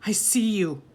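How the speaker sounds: hushed, breathless accusation; frightened whisper. A narrator's reading. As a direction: whisper it as if afraid to be heard.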